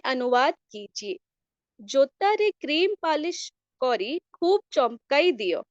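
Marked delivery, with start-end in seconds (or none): 1.8-5.6 Odia reading. Shown as a demonstration. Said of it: "मेरा ओडिया उतना अच्छा नहीं है".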